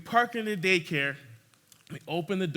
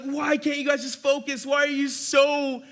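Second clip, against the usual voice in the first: mock-scolding the toddlers; fed-up sitter venting at toddlers; exasperated; 6 semitones higher than usual.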